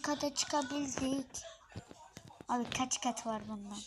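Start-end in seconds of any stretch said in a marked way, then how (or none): 2.5-3.8 whisper. Real, not acted. Whispered nervous question.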